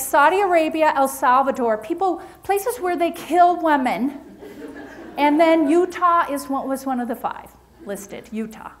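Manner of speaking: dry sarcastic listing; deadpan, heavy with irony. Acted. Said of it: "I'm being very sarcastic".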